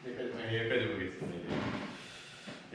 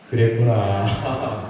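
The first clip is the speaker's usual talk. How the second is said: slow tender empathy; 4 semitones lower, 6 dB louder, much slower than usual. Shown as a demonstration. Pastor leading the congregation, drawn out and tender. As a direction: stretch it out slowly and gently. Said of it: "시작".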